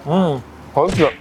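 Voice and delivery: slow savoring hoicha; drawn-out hoicha. Shown as a demonstration. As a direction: stretch out hoicha slowly. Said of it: "Hoicha ya, bukan haucha".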